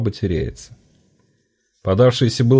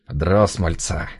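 smug friend; 3 semitones lower, slower than usual. A narrator's reading. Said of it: "Довольно щурится котяра".

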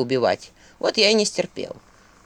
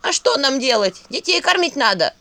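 raised, pleading exclamation; exclaiming ghoul wife; 6 semitones higher than usual. A narrator's reading. Ghoul wife justifying herself to Vasilisa, exclaiming. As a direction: cry out in defence of the children. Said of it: "воскликнула упырица".

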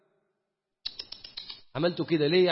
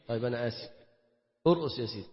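softer and lower, sarcastic giving in; mock surrender; 8 semitones lower, 7 dB quieter, faster than usual. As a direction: shrug it off with fake apology. رد ساخر مستسلم. (استسلام ساخر بصوت خافت)

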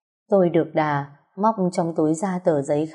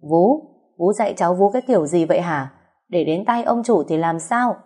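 a sharp, louder scolding of the nanny; scolding shout; 3 dB louder than usual. Acted. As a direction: snap at her for raising her niece badly. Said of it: "bà quát". (quát mắng lớn tiếng)

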